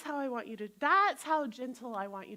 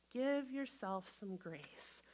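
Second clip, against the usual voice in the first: gentle slow; 3 semitones lower, 7 dB quieter, slower than usual. Shown as a demonstration.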